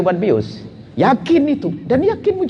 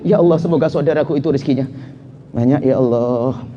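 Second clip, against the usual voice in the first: forced prayer; 4 semitones lower than usual. Shown as a demonstration.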